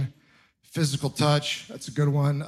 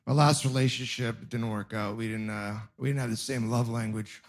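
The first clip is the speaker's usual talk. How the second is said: dropped, quiet mock-sad voice; a touch of fake sorrow, lower and quiet; mock sad aside; 7 semitones lower, 8 dB quieter than usual. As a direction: sink into a sorry confession, much softer.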